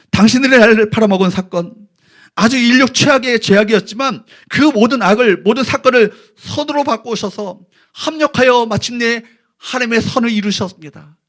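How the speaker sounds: ordinary talk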